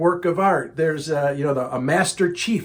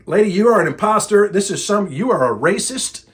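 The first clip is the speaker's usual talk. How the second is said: retold accusation; 4 semitones higher, 4 dB louder than usual. Retelling his angry accusation to caller.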